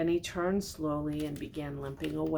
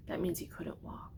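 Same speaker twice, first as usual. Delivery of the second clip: whispered aside; 7 dB quieter than usual. Real, not acted. Explaining aside to child.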